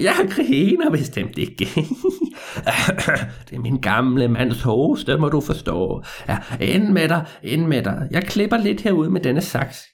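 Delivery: put-on a crafty old man with a job for the boy; sly old man. Old man denies laughing.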